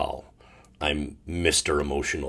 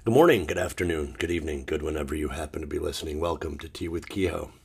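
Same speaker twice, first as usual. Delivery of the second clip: rushed show intro; 3 semitones lower, faster than usual. Shown as a demonstration. Restarting his show intro, rattled off fast. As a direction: hurry through the greeting. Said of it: "this is the fourth time I've started this".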